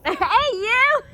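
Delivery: loud call across the yard. Real, not acted. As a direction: shout a friendly hey. Calling out to someone.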